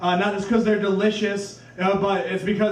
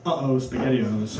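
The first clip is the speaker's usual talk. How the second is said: put-on dismayed kid; 8 semitones lower than usual.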